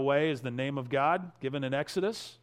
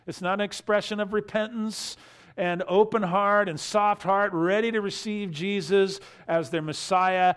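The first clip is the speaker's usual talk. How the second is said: rising preaching force; 4 semitones higher, 4 dB louder than usual. Real, not acted. Preacher building to his main point.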